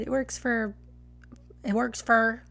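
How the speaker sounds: Texas-style "for" that rhymes with "fur"; Texas accent. Real, not acted. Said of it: "it's a very Texas thing".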